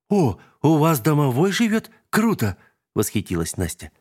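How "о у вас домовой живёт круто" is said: восторженный голосок. Acted.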